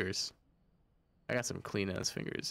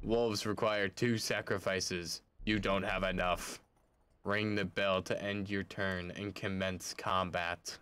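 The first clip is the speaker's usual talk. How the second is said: lightly lowered, slow dealer voice; a hint of a mysterious game master; card game dealer; 3 semitones lower, slower than usual. Dealer explaining rules to the player, a touch ominous.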